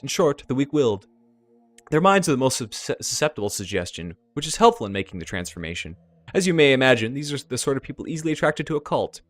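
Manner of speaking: theatrical elf explainer with emphatic outbursts; effusive lecturing elf. Acted. Elf explains insect spirits to Punty, theatrical and effusive. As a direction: relish the grisly lecture, punching each new step.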